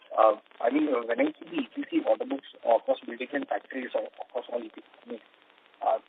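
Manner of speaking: glitchy, breaking-up phone line; distorted speech dropping in and out; corrupted glitchy audio. Real, not acted. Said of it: "lot parts of the question I was not able to figure out".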